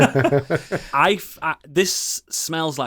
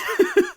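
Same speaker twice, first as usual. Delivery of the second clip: sneezing. Real, not acted. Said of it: "I just had a democratic sneeze then".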